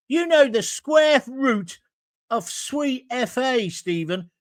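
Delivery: slow sneering taunt at Stephen; slow scornful jibe. Real, not acted. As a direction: drag it out to mock him. Berating Stephen Fry.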